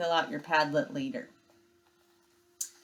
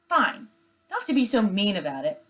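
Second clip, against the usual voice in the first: huffy sister; 3 semitones higher, 4 dB louder, faster than usual. Acted. Sister retorts to brother.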